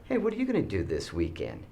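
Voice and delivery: calm, quick, easy undertone. Acted. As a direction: speak calmly to the neighbor beside you. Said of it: "in a very calm voice".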